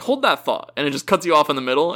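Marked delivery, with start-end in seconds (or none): 0.0-0.7 much higher mock Rains cutting in; imitating Rains Falls. Friend imitates Rains Falls cutting Arthur off, high mock voice. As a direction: pop it up high, a quick interruption. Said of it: "he's like".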